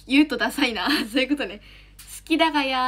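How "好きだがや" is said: a playful Nagoya-dialect confession of love. Shown as a demonstration. Streamer answering a fan's request in Nagoya dialect, playful and a little shy. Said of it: "名古屋弁で言うとくださいな".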